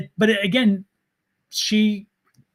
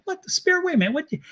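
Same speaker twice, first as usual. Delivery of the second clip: high, incredulous mock complaint; mock indignant; 4 semitones higher than usual. Medium complaining to the spirit about the connection, mock indignant. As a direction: take the spirit to task in mock disbelief.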